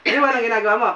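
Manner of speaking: questions broken by chuckles; laughing teasing. Real, not acted. Healer teasing the patient who has come round, laughing. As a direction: tease through laughter.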